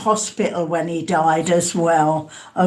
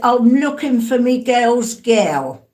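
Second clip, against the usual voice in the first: Cockney quote. Retold or imitated. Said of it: "she's a Cockney lady".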